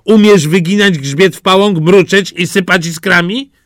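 a superior cat quizzing the duckling; smug cat. Acted. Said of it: "A kot zapytał".

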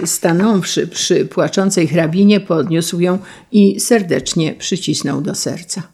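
plain reading voice

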